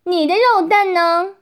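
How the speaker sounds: high, sharp demanding yell; stern shout. Acted. Policewoman confronting a prisoner, stern shout. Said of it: "厉声喝道".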